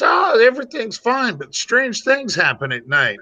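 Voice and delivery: lightly voiced chicken, starting high; a hint of a thrown voice; talking chicken voice. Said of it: "And she says".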